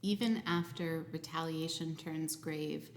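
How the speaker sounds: slow, measured poetry reading; poem reading. Acted. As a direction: read the poem gently and deliberately. Reads her poem aloud.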